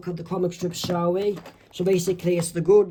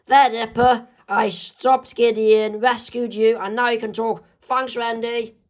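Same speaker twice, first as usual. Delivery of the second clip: proud rescue; 5 semitones higher than usual. Acted. Wendy frees Dipper.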